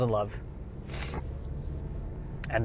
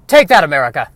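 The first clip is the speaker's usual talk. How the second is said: movie line; 7 dB louder than usual. Acted. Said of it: "for the sake of that line right there".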